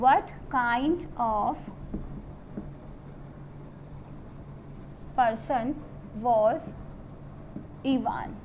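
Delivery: very slow, word by word with long pauses; slow dictation. Shown as a demonstration. Teacher dictating the exam question to students very slowly. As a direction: dictate each word so students can write it. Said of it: "One of the question was that".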